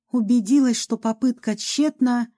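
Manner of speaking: ordinary delivery, nothing marked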